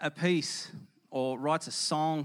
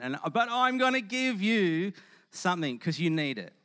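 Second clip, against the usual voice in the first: smug do-gooder; 4 semitones higher, 4 dB louder than usual. Retold or imitated. Preacher mocking a smug giver to the congregation, high and self-satisfied. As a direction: lay it on thick as a smug show-off. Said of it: "It's like".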